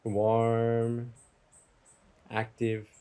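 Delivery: unhurried meditation guide, long pauses; guided meditation. Real, not acted. Teacher guiding listeners from table to campfire, guided meditation. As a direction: give each image room to settle. Leads a guided imagery exercise.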